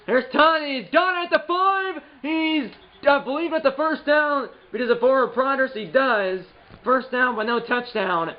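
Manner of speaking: high, bright announcer rush; play-by-play call. Acted. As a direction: sell the run like a broadcaster. Calling his own play.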